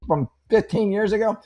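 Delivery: a high, loud, sarcastic voice for the body; mock the listener like a smug body; the body talking. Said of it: "your body's like".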